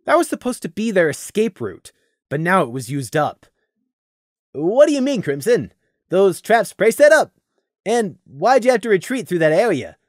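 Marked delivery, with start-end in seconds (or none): 4.5-10.0 concerned. Acted. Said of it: "Gloom asked in concern".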